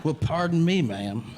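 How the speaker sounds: mock cowboy politeness; cowboy persona. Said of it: "adopted the cowboy persona".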